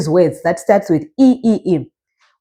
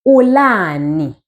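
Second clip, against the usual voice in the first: "Ulani" slowly drawn out; teacher modelling "Ulani", long middle vowel; model pronunciation; slower than usual. Shown as a demonstration. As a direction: say "Ulani" slowly for a learner to repeat. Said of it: "here is how you ask it".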